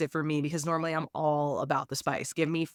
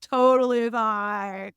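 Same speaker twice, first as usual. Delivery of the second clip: mock approval; 4 semitones higher, 5 dB louder, much slower than usual. Sarcastic echo of excusing him.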